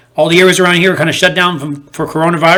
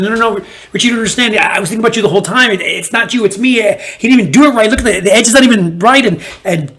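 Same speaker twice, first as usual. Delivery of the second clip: higher, rushed, pleading; pleading breakup excuse; 6 semitones higher, faster than usual. Retold or imitated. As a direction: beg like a lover caught cheating. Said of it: "begging someone not to break up".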